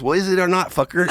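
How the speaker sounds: high, loud mock impatience; impatient demand. Key holder demanding the inmate's name, mock impatient.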